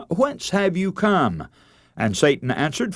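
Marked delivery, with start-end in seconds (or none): 0.1-1.5 slow, raised voice of God asking; a drawn-out, lofty question, lightly voiced. God questioning Satan at council.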